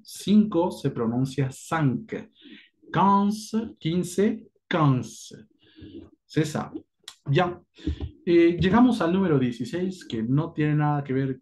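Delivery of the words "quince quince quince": "Quince" said as kanz, higher at first; French quinze. Shown as a demonstration. Teacher drilling quinze against cinq. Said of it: "attention à la prononciation".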